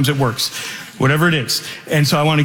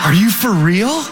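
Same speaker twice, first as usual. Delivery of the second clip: surprised; 5 semitones higher than usual. Retold or imitated. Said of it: "They go".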